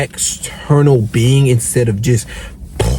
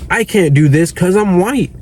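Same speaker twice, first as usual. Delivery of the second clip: mock victim; 5 semitones higher than usual. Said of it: "a guy out there who thinks".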